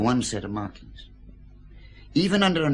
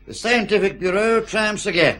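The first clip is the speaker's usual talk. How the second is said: higher, louder proclamation of success; mock triumphant; 10 semitones higher, 8 dB louder than usual. Forensic man crowing his news to the inspectors, mock triumphant. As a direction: announce it like a herald, pleased with himself. Boasting announcement of new evidence.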